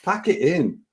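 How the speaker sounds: mock exasperated football heckle; mock shouting at players. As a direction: berate the players without really shouting. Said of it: "I can't just shout".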